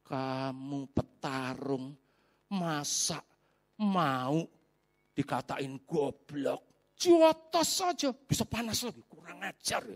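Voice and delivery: a hint of a whispering tempter; tempting devil. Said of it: "iblisnya ngomong". (bisikan iblis yang pelan dan licik)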